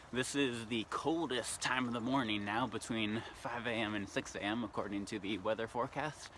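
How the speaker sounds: slight lisp from numb lips; cold numb face. Real, not acted. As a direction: talk through a frozen face. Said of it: "sound like I have a bit of a lisp".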